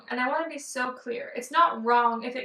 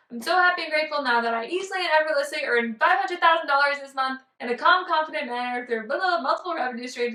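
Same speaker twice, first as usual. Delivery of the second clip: mock affirmation; 2 semitones higher, 4 dB louder, faster than usual. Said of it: "instead of saying".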